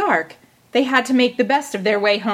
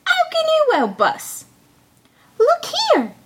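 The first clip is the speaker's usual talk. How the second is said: Tom Thumb. A narrator's reading. High voices.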